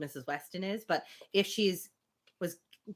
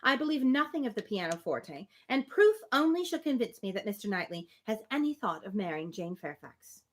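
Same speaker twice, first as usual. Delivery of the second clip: steady, even reading of period dialogue; reading a novel aloud; 4 semitones higher than usual. Acted. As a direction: read the two women's exchange like a classic novel. Reads Emma passage aloud.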